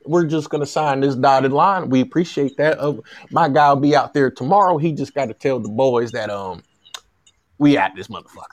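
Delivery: light mock Southern accent, wrapping up the deal; pretend Southern agent. Agent closes the deal with USC, in a light Southern voice. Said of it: "This is my Southern voice".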